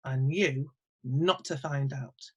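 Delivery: smug farmer. Retold or imitated. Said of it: "And he would say".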